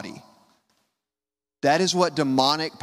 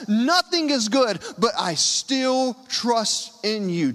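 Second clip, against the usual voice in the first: impassioned prayer; 7 semitones higher than usual. Acted. Voicing a believer's prayer.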